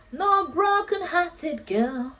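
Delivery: slow, high, drawn-out proud line; quoting India's defiant motto, slow and high; proud declaration. Retold or imitated. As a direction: savour each word like a motto. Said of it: "my girl is like".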